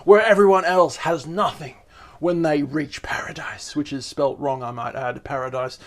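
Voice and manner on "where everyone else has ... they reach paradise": serial killer voice. Acted. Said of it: "put on a serial killer voice".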